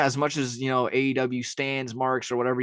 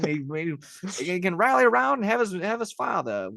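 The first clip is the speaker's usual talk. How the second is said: high, old-timey announcer, hammed up; 1950s radio voice; 8 semitones higher than usual. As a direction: boom it like a vintage radio host. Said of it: "I did put on my nineteen fifties radio voice".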